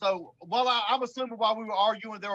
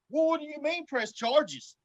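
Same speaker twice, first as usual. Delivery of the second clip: baffled boater; 6 semitones higher, slower than usual. Retold or imitated. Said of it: "that dude in that boat is like".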